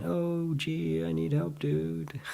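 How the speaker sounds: high, soft, held-note whine; soft mock plea. Teacher echoing the creeping conditioned thought, soft mock plea. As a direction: float it up high and quiet, jokingly helpless. Repeats the thought, then laughs.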